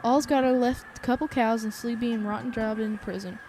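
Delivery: put-on mild southern accent, bitter old man reminiscing; lightly voiced Southern farmer, resentful. Old farmer laments his lost days, light southern accent. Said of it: "I hope you like my southern accent".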